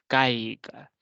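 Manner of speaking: «caiga» alargada, con la fuerza en la A; acento en la A. Shown as a demonstration. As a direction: stretch «caiga» slowly, leaning on the A. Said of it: "tiene la mayor fuerza de voz en este caso". («caiga» con la mayor fuerza de voz en la A)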